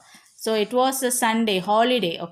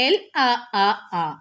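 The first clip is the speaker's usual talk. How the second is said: mock angry yell; much faster than usual. Shown as a demonstration. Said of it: "we will be saying".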